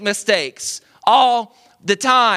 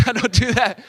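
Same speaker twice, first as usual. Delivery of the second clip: laughing; 3 semitones higher than usual. Real, not acted. Laughing denial.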